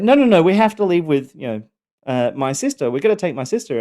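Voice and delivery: put-on high, loud pleading little girl; panicked child. Daughter in the car insisting her sister comes, high panicked pleading. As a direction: beg like a kid who just realised her mistake.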